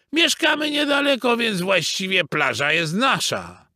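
high-pitched beaver protest; indignant shout. A narrator's reading. Father beaver claiming the beach, shouting. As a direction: cry out your claim. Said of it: "krzyknął tata Bóbr".

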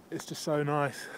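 breathless and quiet; panting between words; out of breath. Real, not acted. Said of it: "I'm out of breath".

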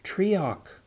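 high, sharp commanding call; commanding shout. A narrator's reading. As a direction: stop him with one high commanding cry. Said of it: "Atiaran's commanding shout".

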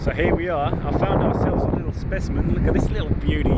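loud, keen wildlife-wrangler; loud excited. Pretend. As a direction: shout it mid-wrestle. Loud excited croc-wrestling host.

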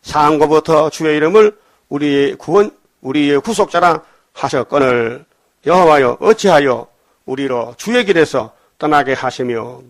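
slow, weighty reading of scripture; solemn scripture reading. Acted. Preacher reading Isaiah to the congregation, slow and solemn. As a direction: draw out each phrase like a prayer.

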